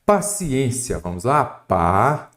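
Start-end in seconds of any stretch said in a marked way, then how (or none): 1.5-2.3 "Pa" held as a separate syllable. Shown as a demonstration. Teacher splitting paciência for students, syllable by syllable. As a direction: sound out "Pa" alone, as the first syllable. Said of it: "primeira coisa é separar".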